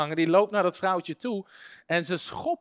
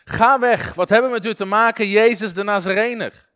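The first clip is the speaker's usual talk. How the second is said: louder demon cry at Jesus; mock demon shout; demon yelling; 3 semitones higher, 6 dB louder than usual. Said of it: "Die beginnen te schreeuwen".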